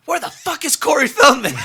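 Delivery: retold frantic yell. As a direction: shout it in a laughing panic. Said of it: "I look at her, I go".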